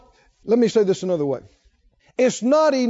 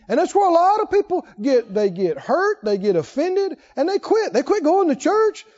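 higher and louder, pressing each point home; fiery preaching; 7 semitones higher, 3 dB louder than usual. Acted. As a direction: preach it hard to the congregation. Preaching at full force.

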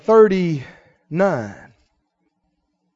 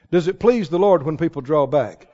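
ordinary talk, nothing marked

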